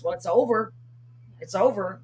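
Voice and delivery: plain, even statement with falling ends; imitating Mama's matter-of-fact manner. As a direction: say it as a simple settled fact. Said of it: "It's like matter-of-factly".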